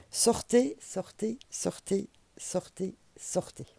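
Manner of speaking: repeated command dying to a breath; insistent sortez fading away. Real, not acted. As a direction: push them out, then let it die down. Urging viewers off the wrong path.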